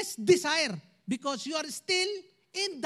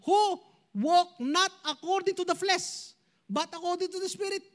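slow, deliberate Bible reading; scripture reading; 3 semitones higher than usual. Acted. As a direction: read the verse out measured and clear.

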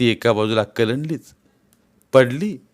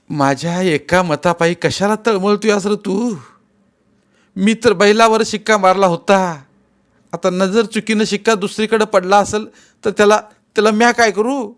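mild angry retort; 9 semitones higher, 5 dB louder than usual. Acted. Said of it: "आता मात्र त्याची आई चिडली".

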